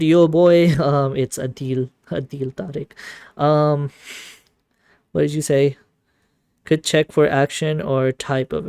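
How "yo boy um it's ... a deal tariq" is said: laughing through a Pakistani accent; a deal, Tariq in a Pakistani accent. Shown as a demonstration. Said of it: "doing normal Pakistani accent".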